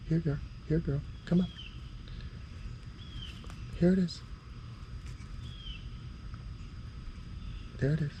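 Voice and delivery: calling a lost pet. Real, not acted. Coaxing lizard to take food.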